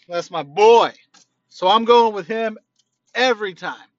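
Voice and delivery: talking through a snack; words around a mouthful; chewing while talking. Real, not acted. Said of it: "Sorry, I'm snacking too".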